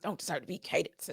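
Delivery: impress it on them gently; lecturing my babies. Retold or imitated. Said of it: "explain to my babies".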